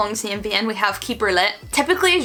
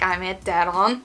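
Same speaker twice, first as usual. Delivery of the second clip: sarcastic; slower than usual. Shown as a demonstration. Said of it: "in a sarcastic way".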